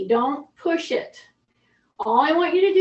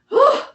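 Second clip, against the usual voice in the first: relieved whew; 11 semitones higher, 5 dB louder than usual. Real, not acted. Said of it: "relief after set".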